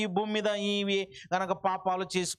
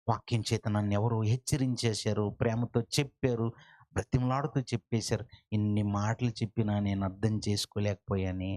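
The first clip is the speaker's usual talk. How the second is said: lower, grieving voice of a lost soul; mournful lament; 6 semitones lower than usual. Retold or imitated. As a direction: lament each regret in a low voice. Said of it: "అని నువ్వు ఏడుస్తూ".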